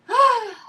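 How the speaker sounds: loud, high falling sigh; heavy sigh of resignation; exasperated sigh. Real, not acted. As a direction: let out a big sigh. Exasperated end of story.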